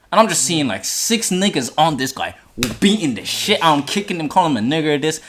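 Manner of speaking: urgent, shaken storytelling; agitated. Real, not acted. Describing friend being beaten.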